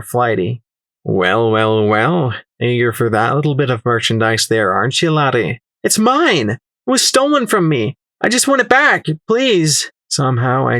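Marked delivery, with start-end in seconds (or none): 1.0-5.6 put-on lightly accented sly trader voice; flighty accented merchant. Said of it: "He spoke with a high voice, his accent similar to number six". 5.8-9.9 much higher, urgent plea; desperate pleading. Acted. Desperate plea for stolen journal.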